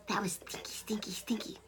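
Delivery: hushed whisper "stinky, stinky"; whispered aside. A narrator's reading. Teller confiding to listeners, giggly whisper. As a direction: whisper it like a naughty secret.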